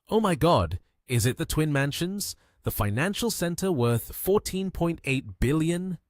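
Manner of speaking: can't believe his luck; surprised. Acted. Lin Yi marvelling at the Twin Mansions, amazed.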